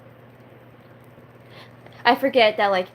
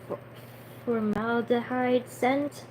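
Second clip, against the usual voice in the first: slow, careful sounding-out; unsure pronunciation; 4 semitones higher, 4 dB quieter, slower than usual. Real, not acted. Reader stumbles on formaldehyde in the book, slow and unsure. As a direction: work through the long word tentatively. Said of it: "I don't know".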